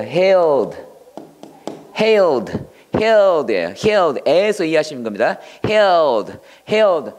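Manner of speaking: hailed said with a long held vowel, held-style, repeated; teacher repeating hailed to contrast with 힐; pronunciation drill. Shown as a demonstration. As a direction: drill hailed slowly and clearly for the class. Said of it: "hailed라고 읽어야 돼요".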